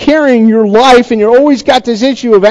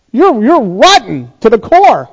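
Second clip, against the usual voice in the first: parent's scolding. Acted. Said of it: "none of us would talk to our kids like that".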